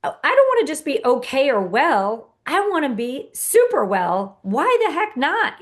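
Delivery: rising to a big high-pitched "Why the heck not"; excited mantra. Pretend. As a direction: shout it like a pep rally cheer. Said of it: "It says".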